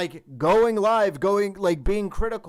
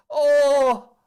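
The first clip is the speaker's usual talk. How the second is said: surprised; 8 semitones higher, 14 dB louder than usual. Real, not acted. Sudden shocked outburst on stream.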